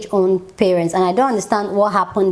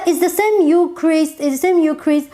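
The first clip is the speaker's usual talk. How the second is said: exasperated outburst; 7 semitones higher than usual. Retold or imitated. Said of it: "And I'm like".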